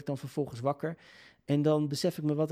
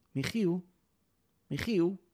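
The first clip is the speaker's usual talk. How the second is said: mother calling out; 6 semitones higher, slower than usual. Retold or imitated. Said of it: "En die riep toen".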